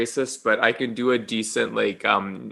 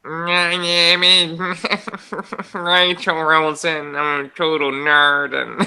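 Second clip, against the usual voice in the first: slow, lightly voiced nerd, breaking into laughs; hint of a nerd dweeb; 2 semitones higher, slower than usual. Put on the spot by her cohost, a slow nerd voice. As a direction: play a dorky nerd introducing himself, barely held. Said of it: "let's hear your nerd dweeb".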